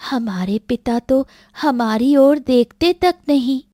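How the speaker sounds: put-on plaintive little girl reasoning with her mother; young daughter. Young daughter voiced, protesting. (शिकायत करती बच्ची की आवाज़)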